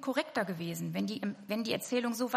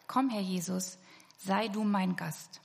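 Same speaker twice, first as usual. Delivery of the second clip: slow prayer; 3 semitones lower, slower than usual. Shown as a demonstration. Slow inward prayer line.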